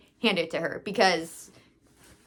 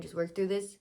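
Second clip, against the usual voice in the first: hushed self-talk; 3 semitones lower, 11 dB quieter than usual. Retold or imitated. Self-talk while feeling dizzy.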